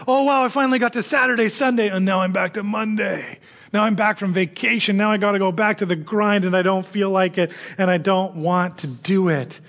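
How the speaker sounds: back-to-grind grumbling. Pretend. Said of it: "not saying".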